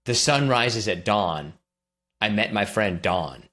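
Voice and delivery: "dawn" and "Dawn" said with one identical vowel; merged Don and Dawn. Shown as a demonstration. Interviewee testing two names for a linguist, "dawn" and "Dawn" sounding identical. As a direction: give "dawn" and "Dawn" the same sound. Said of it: "they sound pretty identical to me".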